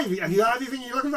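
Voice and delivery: fast, high eager clerk; pushy shop assistant. Retold or imitated. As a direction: rattle it off like a hovering salesman. Mocking pushy shop staff.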